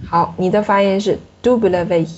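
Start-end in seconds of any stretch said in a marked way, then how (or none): 1.4-2.1 "W" as DOU-ble-vé, weight on the front; imitated learner's front-stressed "W"; stress on first syllable. Shown as a demonstration. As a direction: read French "W" slowly, stressing "dou". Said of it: "你的音是放前面了".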